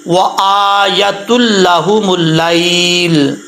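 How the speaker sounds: very slow recitation ending on a silent लैल; slow recitation, stopping. Shown as a demonstration. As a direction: recite slowly and stop on लैल. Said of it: "लाम को साकिन कर देंगे". (धीमी तिलावत, लैल पर वक्फ)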